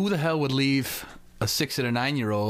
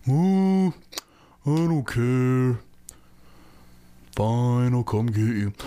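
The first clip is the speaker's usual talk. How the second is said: loud dismissive stepdad; 4 dB louder, much slower than usual. Retold or imitated. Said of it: "he'd be like".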